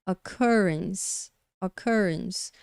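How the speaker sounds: occurrence stressed on CUR, the second syllable; segunda sílaba forte. Shown as a demonstration. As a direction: lean on the middle syllable of occurrence. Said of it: "com a segunda sílaba pronunciada mais forte". (occurrence com a segunda sílaba mais forte)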